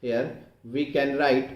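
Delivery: very slow, drawn-out dictation. Shown as a demonstration. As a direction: spell out the equation word by word for note-takers. Dictates the equation while writing it. (धीरे-धीरे, एक-एक शब्द लिखवाते हुए)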